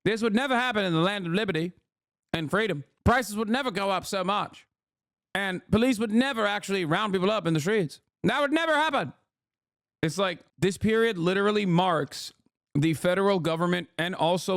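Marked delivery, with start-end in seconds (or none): 0.0-9.1 higher, lightly put-on panicky fifties American; mocking naive patriots, a hint of terror; mock scared citizen. Streamer mocking 1950s Americans afraid of communism, hammed-up fright. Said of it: "they're like".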